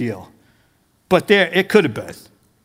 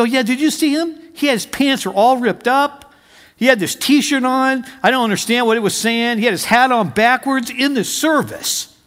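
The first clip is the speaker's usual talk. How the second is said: higher-pitched, lightly voiced griping; mock indignant complaint; 4 semitones higher than usual. Older believer griping to his pastor about a musician, mock indignant. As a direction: imitate a scandalized churchgoer, lightly.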